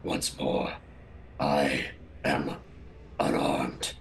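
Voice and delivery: each word dropped heavily; deep deliberate voice. Acted. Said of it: "makes a show of saying".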